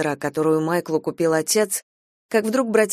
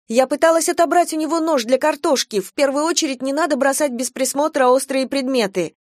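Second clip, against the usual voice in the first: heated defence; 7 semitones higher than usual. A narrator's reading. Girl defends herself to doctor.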